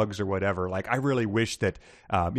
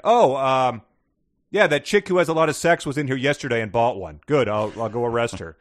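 dim cop voice; 4 semitones higher, 6 dB louder than usual. Acted.

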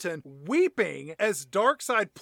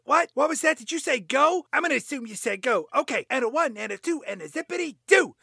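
high, fast, eager chatter; excited; 6 semitones higher, faster than usual. Acted. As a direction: rattle it off like an eager kid. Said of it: "he says".

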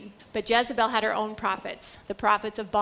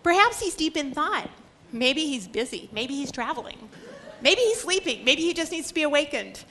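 mocking, higher pitched jeers; taunting; 3 semitones higher than usual. Elijah taunts the prophets of Baal, mocking. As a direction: needle them with sarcasm. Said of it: "Elijah began to taunt them".

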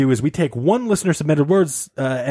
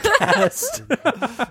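lady voice; 11 semitones higher than usual. Acted. Still in falsetto bit.

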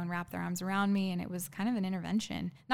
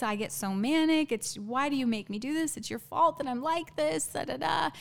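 mock distraught pleading, pitch climbing; imitated tearful breakdown; 3 semitones higher than usual. Retelling his apology that turns to blame, mock tearful. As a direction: imitate a weepy, blaming apology without real sobs. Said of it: "starts to break down and cry".

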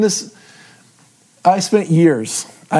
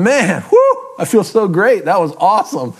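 mock elation; 3 semitones higher than usual. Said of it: "do you walk away going".

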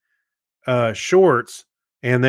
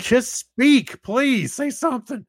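much higher, laughing plea; pleading for speech; 12 semitones higher, slower than usual. Retold or imitated. Viewer begging a silent demo video to speak, high and laughing. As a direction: beg the silent video maker to talk. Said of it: "I'm like".

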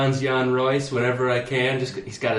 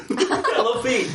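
high squeaky voice; 9 semitones higher than usual. Pretend. Echoing in high voice.

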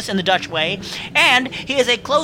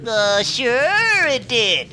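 sarcastic; much slower than usual. Acted. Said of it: "I don't care for your tone".

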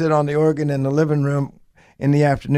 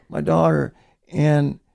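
ordinary talk, nothing marked

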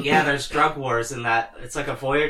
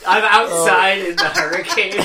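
much higher, louder, laughing field reporter voice; hammed-up reporter shouting over a storm; mock weather reporter; 5 semitones higher, 5 dB louder than usual. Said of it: "can you throw it to the weather for me?".

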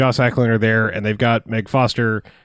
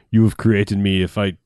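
low-pitched mock Austrian accent, like Arnold; 5 semitones lower than usual. Android addresses his creator, in a light Arnold accent. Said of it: "I'm doing an Arnold accent".

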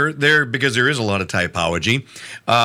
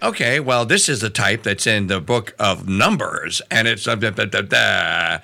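put-on Valley girl voice; 5 semitones lower than usual. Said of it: "Only Sister doesn't talk like a Valley girl".

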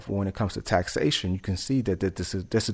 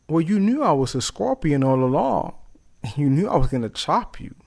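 higher, singled-out creature voice; matter-of-fact scorpion; 5 semitones higher than usual. Acted. Scorpion explains itself to stung frog, higher unapologetic voice. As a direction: answer in a raised voice, without apology.

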